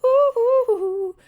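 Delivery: excited hooting. Real, not acted.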